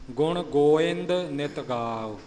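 ਗੋਇੰਦ as go-ind, without v or b; correct reading. Shown as a demonstration. Teacher reciting the corrected line, ਗੋਇੰਦ as go-ind. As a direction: glide straight from o to i in ਗੋਇੰਦ. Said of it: "ਗੋਵਿੰਦ ਜਾਂ ਗੋਬਿੰਦ ਨਹੀਂ ਬੋਲਣਾ".

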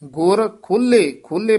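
ਖੋਲੇ with a firm, tightened "ll"; tight ਖੋਲੇ. Shown as a demonstration. Teacher demonstrates to students, ਖੋਲੇ said tightly. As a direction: press ਖੋਲੇ slightly, "khul-le". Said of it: "ਥੋੜ੍ਹਾ ਜਿਹਾ ਕੱਸ ਕੇ ਬੋਲਣਾ ਹੈ".

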